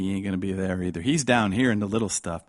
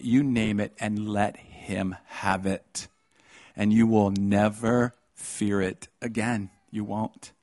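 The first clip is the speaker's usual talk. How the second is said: slow exhortation; much slower than usual. Acted.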